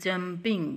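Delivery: "jumping" in two separate sounds; split into syllables. Shown as a demonstration. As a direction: break "jumping" into jum, ping. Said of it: "दो आवाज़ें अदा करनी पड़ी". ("jumping" दो टुकड़ों में अलग-अलग)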